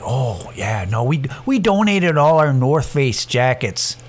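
lightly mocking Fargo accent; mild Upper Midwest accent; Fargo-style accent. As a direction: imitate a boastful woman with a Fargo accent. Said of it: "imagine them having an accent".

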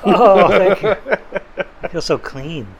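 low, hushed mock bliss; a healed follower sighs his thanks, low and blissful; mock rapture. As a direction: swoon like the newly saved.

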